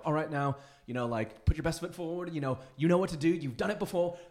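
retold pep talk. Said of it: "pumping up, like".

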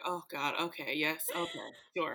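low, soft mock-obedient reply; meek compliance. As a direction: give in quietly, as if to a stern mother. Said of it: "when they get that motherly tone, you're like".

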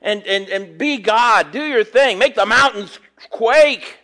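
lightly voiced Isaiah begging God; preacher voicing Isaiah's plea to God; crying out to God. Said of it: "he's crying out to God".

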